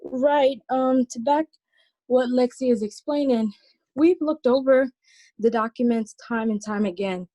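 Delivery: breathless from running up stairs; winded, catching breath between phrases. Real, not acted. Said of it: "I'm a little out of breath, just ran up the stairs".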